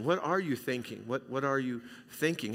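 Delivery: what are you thinking, asked softly and caringly; gentle caring question. Shown as a demonstration. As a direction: ask it kindly, like a friend. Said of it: "with a little different inflection".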